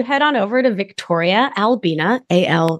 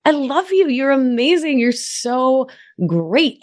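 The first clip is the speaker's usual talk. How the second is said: gushing friend voice; 5 semitones higher, slower than usual. Retold or imitated. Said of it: "people, humans who say".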